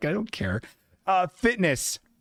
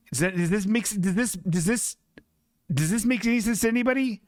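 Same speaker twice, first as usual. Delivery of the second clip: higher, fast baffled plea to the chat; fast, raised, bewildered question; exasperated high pitch; 6 semitones higher, faster than usual. Real, not acted. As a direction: ask the chat in high disbelief.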